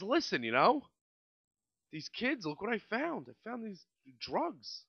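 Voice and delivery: a hint of a hushed tattling driver; imitated limo driver. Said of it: "And he says".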